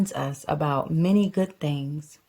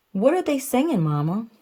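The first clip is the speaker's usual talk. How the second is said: a hint of a small child asking, pitched up; lightly voiced little cub; 4 semitones higher than usual. Little cub asking mama in church light, lightly higher. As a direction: ask it like a curious cub. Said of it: "little cub asks mama".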